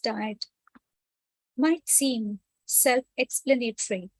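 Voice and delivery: measured read-aloud, pausing between phrases; article read-aloud. Acted. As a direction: read it out phrase by phrase for listeners with eyes closed. Reads article aloud to meditating listeners.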